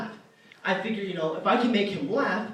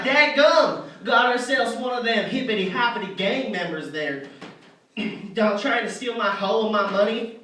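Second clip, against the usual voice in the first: loud, outraged white-trash bluster; hammed-up angry hick; mad redneck; 3 semitones higher, 4 dB louder than usual. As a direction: blurt it out, then drag out the accusation. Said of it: "he gets all mad".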